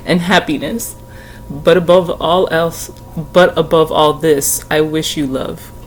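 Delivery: slow, tender reading of the lyric; teary reading. Real, not acted. Finishing the lyrics for viewers, slow and moved. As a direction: let each phrase land gently. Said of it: "I will read to you the part".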